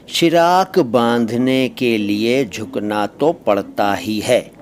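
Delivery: slow, measured teacher's example; drawn-out words; example sentence. Shown as a demonstration. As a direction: spell the sentence out slowly for learners.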